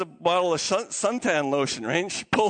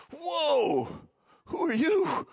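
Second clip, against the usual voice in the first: higher, mildly spooked mock reaction; kind of freaking out; 6 semitones higher, much slower than usual. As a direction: play a little startled by a stranger. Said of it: "kind of freaking out".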